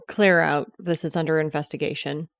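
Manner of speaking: stern cop voice ordering people out; firm police command; tough cop. Acted. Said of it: "I put on my best cop voice".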